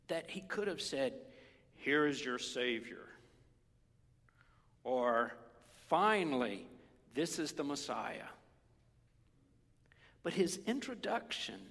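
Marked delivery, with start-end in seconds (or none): 1.8-8.3 loud proclamation of an arrival; grand announcement. Acted. Preacher imagines God announcing the Savior, proclaiming. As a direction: announce it to the crowd, weighty.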